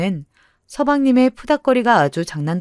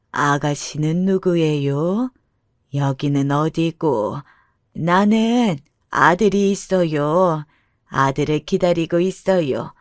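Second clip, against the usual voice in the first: put-on slow, bewildered old mother voice; gently acted forgetful mother, unsure and slow; confused elderly mother; slower than usual. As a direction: drag the words out like a lost elder.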